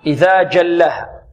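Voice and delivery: slow "إذا جلها" with stopped j; measured recitation, hard jim in "جلها"; correct firm jim. Shown as a demonstration.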